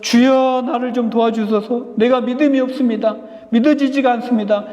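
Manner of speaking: urgent preacher's demonstration of pleading prayer; crying out in prayer. Acted. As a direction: cry out like a desperate father praying. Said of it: "여러분들이 부르짖을 때".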